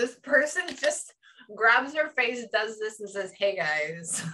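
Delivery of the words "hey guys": very chilled, relaxed, laid-back, easy voice. Retelling how a spirit greeted: imitating a very chilled greeting. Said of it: "very chilled, very relaxed".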